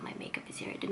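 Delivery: soft unvoiced whisper. Real, not acted. Whispering to camera while showing her makeup. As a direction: drop to a breathy aside.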